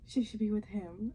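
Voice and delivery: mildly excited retold reaction; retold sudden conviction. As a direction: act out being won over by a suitor. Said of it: "each time we were meeting one of the guys".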